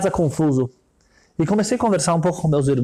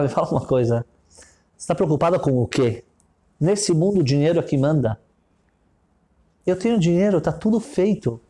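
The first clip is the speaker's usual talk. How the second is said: rich man's voice; 2 semitones lower than usual. Retold or imitated. Rich man answers with laughing scorn.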